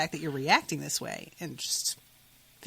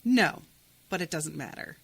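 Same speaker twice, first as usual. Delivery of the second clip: flat voice; 3 semitones lower than usual. Retold or imitated. Girl answers whether she has courage to go alone, flat. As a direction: read it flatly, dropping away after the no. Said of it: "Meg's voice was flat".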